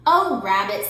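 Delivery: low, yawning bear; sleepy yawn through it; lightly voiced drowsy bear. A narrator's reading. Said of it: "said Bear with a yawn".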